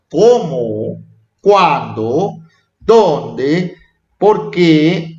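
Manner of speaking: "cómo", "cuándo", "dónde", "por qué" each stretched and lilting upward; question intonation. Shown as a demonstration. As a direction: recite each question word separately with a rising end. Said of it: "son para hacer preguntas".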